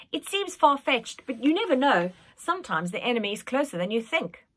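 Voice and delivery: hint at a dark secret; ominous old nanny. Acted. Nanny hinting darkly.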